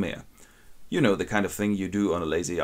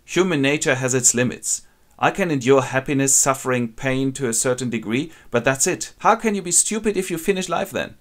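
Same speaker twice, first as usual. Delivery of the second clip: loud, higher passionate protest; impassioned outburst; 5 semitones higher, 5 dB louder than usual. Acted. Werther argues with Albert about suicide, loud and impassioned. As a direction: pour out the feeling with rising passion. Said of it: "and says".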